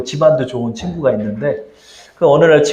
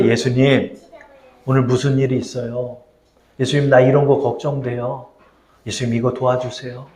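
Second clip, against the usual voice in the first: intimate simple prayer; 3 semitones lower, 4 dB quieter than usual. Shown as a demonstration. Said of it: "이렇게 기도하는 거예요".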